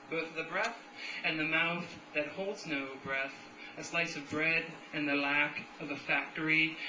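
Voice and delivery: steady, deliberate poem recital; incantatory list-like verse reading; poetry reading. Acted. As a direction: recite the verse evenly in measured phrases. Reads a third poem.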